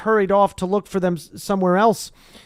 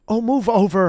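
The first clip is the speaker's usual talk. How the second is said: snarled; 3 semitones higher, 4 dB louder than usual. Acted. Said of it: "Hermione snarled".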